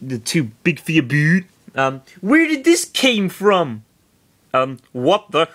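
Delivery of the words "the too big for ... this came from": put-on high girl voice. Lynn voiced in read fiction.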